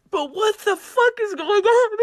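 high, loud exasperated cry; emotional outburst. Real, not acted. Young woman venting to viewers after the election. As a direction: throw the question at the world. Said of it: "Forgive me for being a little emotional here".

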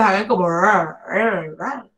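"R" as a curled English R; English R sound. Shown as a demonstration. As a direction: drill the R. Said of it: "Así suena la R en inglés".

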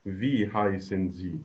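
very slow, clearly separated words; slow model answer. Shown as a demonstration. Teacher models the correct question for the class, very slowly. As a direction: say it slowly for learners to repeat. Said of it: "برافو عليكم".

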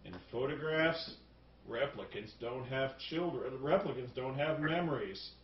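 understated mock film-noir voice-over; low-key imitation of movie narration; Harrison Ford. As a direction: lightly imitate a detective's dry monologue. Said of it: "then Harrison Ford is like".

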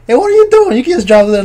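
high, loud mock yell at a coworker; retold yell. Annoyed coworker yelling across the warehouse floor, high mock yell. Coworker yells at him in story.

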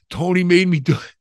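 high, loud blaming cry; loud quote. Retold or imitated. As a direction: shout out who's to blame. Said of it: "He goes".

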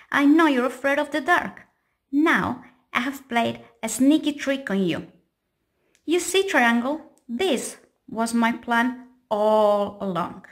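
smug square turning the tables; gloating. Acted. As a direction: gloat over the trick.

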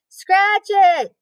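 high, loud call from the swing; boy yelling to his sister; excited yell. A narrator's reading. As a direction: shout it back while swinging. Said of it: "yelled Avery".

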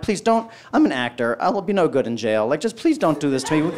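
mildly acted begging; pleading. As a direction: imitate a plea to the officer. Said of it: "I'm begging the guy".

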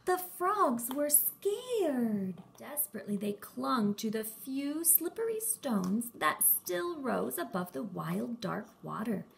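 put-on lively read-aloud for young kids; animated children's story voice; storytime narration. A narrator's reading. Reads a picture book to children.

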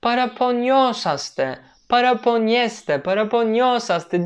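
slow, careful syllable by syllable. Shown as a demonstration. Teacher showing learners how to pronounce long verbs, slowly. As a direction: take your time over each syllable. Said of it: "Çok acele etmeyin telaffuz ederken".

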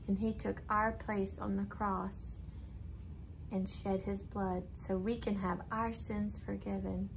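gentle and sincere; soft, sincere. Acted. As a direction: speak softly, like a caring teacher. Gentle religious message to children.

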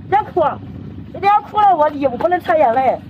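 soft, high voice fighting tears; about to cry. Real, not acted. Traveller leaving friends tries not to cry, near tears. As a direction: hold back tears, softly and high.

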